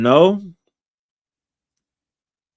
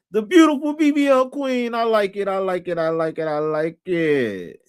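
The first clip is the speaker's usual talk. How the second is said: playful hype; 3 semitones higher than usual. Pretend. Hyping up a viewer in chat.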